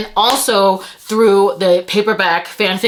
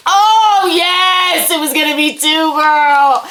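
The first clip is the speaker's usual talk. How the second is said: tag; 4 semitones higher than usual. Real, not acted. Thrilled at discovering the books.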